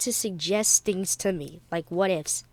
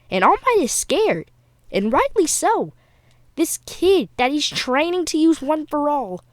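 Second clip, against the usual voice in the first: excited; 3 semitones higher, 5 dB louder than usual. Real, not acted. Hyping up a dramatic plot point.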